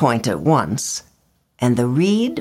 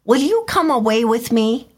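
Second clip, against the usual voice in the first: higher pleading bird voice; swallow's voice; 7 semitones higher than usual. A narrator's reading. Swallow asking the reed to leave with him, pleading. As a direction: ask her hopefully. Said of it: "he said finally to her".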